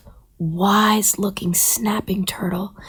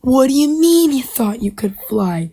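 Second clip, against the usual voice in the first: incredulous scolding; 4 semitones higher, 5 dB louder than usual. Acted. Turtle scolds the injured bird.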